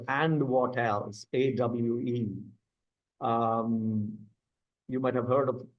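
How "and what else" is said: slow emphasis. Shown as a demonstration. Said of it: "three words".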